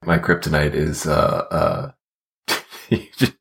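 trying not to laugh. Real, not acted. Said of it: "I'm losing it".

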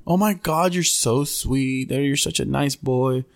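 imitated motherly gushing; lightly voiced doting woman, drawing the words out; Susan. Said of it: "now she's being motherly".

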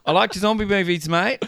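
high-pitched New Zealand attempt drifting Brummie; badly faked Kiwi accent. Peter Jackson praising the zombie movie, badly faked Kiwi accent.

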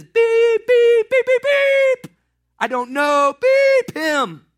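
loud, high bleeps with a shouted denial; a fisherman shouting curses, all of them bleeped out; furious cursing denial. Acted.

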